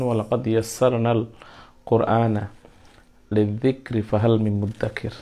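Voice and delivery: Arabic verse recited with care; measured Quranic recitation; quoted Quran verse. Shown as a demonstration.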